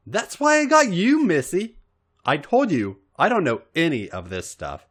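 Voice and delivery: Robin's voice. Acted. Robin voiced in read story.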